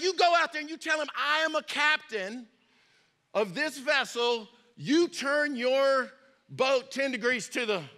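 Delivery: retold outrage, high and insistent; upset captain. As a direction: play a captain mildly losing his temper. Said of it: "the captain got upset".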